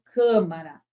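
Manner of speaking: CÂMARA with a closed first A; closed vowel. Shown as a demonstration. Teacher contrasting with médico, CÂMARA with closed A. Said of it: "você tem uma vogal fechada".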